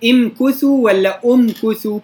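امكثوا with i, then أمكثوا with u; contrasting readings. Shown as a demonstration. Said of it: "بضم الهمز ولا بكسرها".

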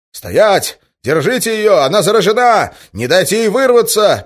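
high, loud commands; commanding shout. Acted. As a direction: bark orders after her. Ivan shouting chasing the girl.

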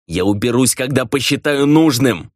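mild yell, climbing in pitch; defiant retort building upward; narrator's restrained shout of refusal; angry yell. A narrator's reading. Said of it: "заорал он".

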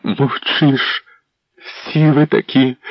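high accusing cry; wife shouting at the silent prince; angry shout. A narrator's reading. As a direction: hurl the accusation. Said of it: "Вона кричала".

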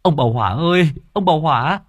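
high, urgent call from a distance; calling out loud. Acted. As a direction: shout his name to get his attention, then rush the news. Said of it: "Người kia gọi to".

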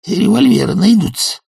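high, drawn-out sullen mumble; Sharikov mumbling. A narrator's reading. Sharikov mutters back at Bormenthal before escaping. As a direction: mumble a feeble threat. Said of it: "пробормотал полиграф".

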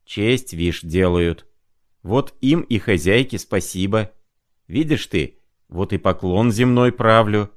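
a lightly voiced rambling old clerk, pitch rising; a hint of a muddled sick clerk bowing and explaining; mumbling old clerk. Sick clerk rambling thanks to the landlady, lightly voiced.

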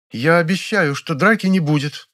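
imperious plummy grande dame; majestic. A narrator's reading. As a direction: pronounce it like a queen. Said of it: "величественно изрекла актриса". (величественно, как примадонна)

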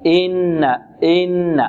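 إن with a short easy "i" before the held ن; correct short hamza. Shown as a demonstration. Teacher giving the right way, short smooth hamza. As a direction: start إن on a brief kasra, lengthen only the nun. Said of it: "الصحيح ماذا؟".

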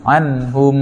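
อันฮุม with a distinct N before the H; clear noon. Shown as a demonstration. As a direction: sound the N of อันฮุม cleanly, unblended. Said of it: "ก็ออกเสียงนูนให้ชัดเจนเช่นเดียวกัน".

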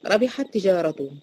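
slow measured recitation of ربحت تجارته with the two ت merged into one doubled ت; Quran recitation. Shown as a demonstration. Teacher reciting an example for her students, slow and measured. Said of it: "أدي ت وت".

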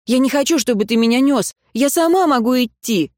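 high, heated objection; indignant protest. Acted. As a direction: insist she can walk. Tayra arguing in his arms.

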